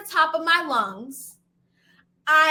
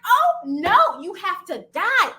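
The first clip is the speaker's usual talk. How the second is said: mock menace; 5 semitones higher, 4 dB louder, slower than usual. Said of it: "I'm like".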